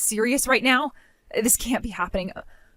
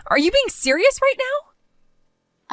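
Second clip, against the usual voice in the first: much higher, slow, stretched disbelief; incredulous; 10 semitones higher, much slower than usual. Acted. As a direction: drag it out in shocked disbelief. Bride incredulous about funeral.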